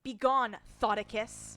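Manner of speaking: shouted command at a ghost; loud mock banishing; yelled banish. Yells at game ghost.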